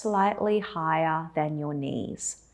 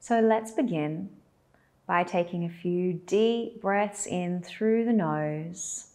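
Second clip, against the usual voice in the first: guided meditation. Acted. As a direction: lead them gently into stillness, with long pauses.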